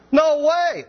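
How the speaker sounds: high, indignant no way; Peter rebuking. Retold or imitated. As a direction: cry out a shocked objection. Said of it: "Peter's rebuking him".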